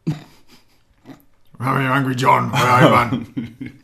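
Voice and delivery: Angry John, mock Geordie. Co-host retries absent friend's voice, hammed-up Geordie. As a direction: lay the put-on Geordie on thicker. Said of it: "you don't sound very Geordie".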